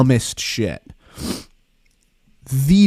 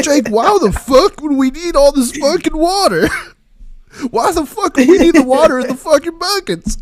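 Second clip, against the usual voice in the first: imitating ranting boss; 13 semitones higher than usual. Boss yelling at Jake about the buckets, high mock rant. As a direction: rant at the worker like an outraged boss. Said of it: "He's like".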